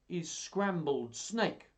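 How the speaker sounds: slow, deliberate, teasing menace; sly mouse. Acted. Mouse bluffing a hungry snake, slow and deliberate. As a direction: announce the dish slowly and pointedly.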